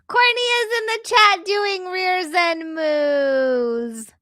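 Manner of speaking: slow words through laughter; laughing. Real, not acted. Laughing at chat while stretching.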